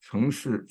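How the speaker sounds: "Chengshi" with CHENG stressed. Shown as a demonstration. Lecturer reads phrase book example, "Chengshi" stressed on CHENG. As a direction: put the weight on CHENG in "Chengshi". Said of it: "cheng is stressed".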